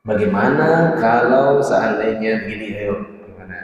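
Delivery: a hint of a smug quizzer; testing challenge. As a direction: put the teacher on the spot, mock test. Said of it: "hanya untuk menguji saja".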